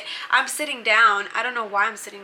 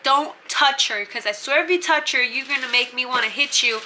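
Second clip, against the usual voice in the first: imitating a protective friend, slightly raised; mock warning. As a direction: act out a firm back-off threat. Friend warning bunkie in retold quarrel.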